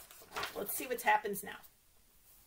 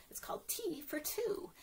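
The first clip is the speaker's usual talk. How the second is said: whisper; 4 semitones higher, 8 dB quieter than usual. Real, not acted. Whispered song title.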